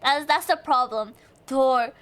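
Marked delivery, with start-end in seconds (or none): 1.5-1.9 French accent. Shown as a demonstration. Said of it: "I can't roll my R's".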